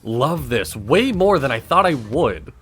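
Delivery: radio guest voice. Acted. The speaker introduces himself on the radio, loud host-style voice. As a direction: ham it up like a seasoned DJ. He plays along on air.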